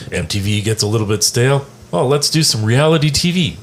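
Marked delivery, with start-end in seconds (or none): 1.9-3.6 higher, upbeat imitation of a bright idea; mock eager pitch. Voicing the plan once MTV gets stale, eager. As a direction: toss out the big idea, pitch lifted.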